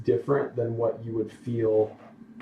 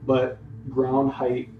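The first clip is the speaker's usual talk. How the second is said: measured storytelling in separate phrases; game master narration; 5 dB louder than usual. Acted. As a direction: describe the scene to your players, pausing between details. Game master sets scene.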